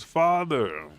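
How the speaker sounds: high, loud call to dad; acted cry for father. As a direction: imitate a child calling out to father. Falling daughter calls father, retold.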